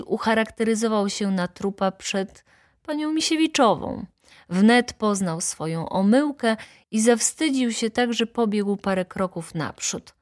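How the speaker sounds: ordinary delivery, nothing marked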